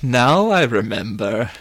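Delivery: slow, swooping realization; drawn-out, emphatic villain's revelation; dawning recollection. Acted. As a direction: swell on the recollection in full voice. Villain's memory returns, first take.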